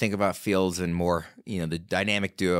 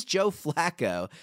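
hammed-up Baltimore accent, drawn out and high; 8 semitones higher, much slower than usual. Shown as a demonstration. Host reading a player's name to co-hosts, playful bad Baltimore accent. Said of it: "the Baltimore accent, just saying Joe Flacco's name that way".

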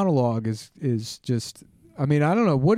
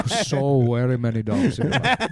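put-on Indian accent. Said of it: "when you do an Indian voice".

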